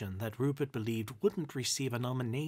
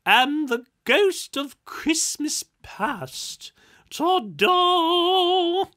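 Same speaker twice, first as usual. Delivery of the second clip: high, loud, slow showy reveal; grand announcement; 11 dB louder, much slower than usual. A narrator's reading. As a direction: present yourself with a flourish.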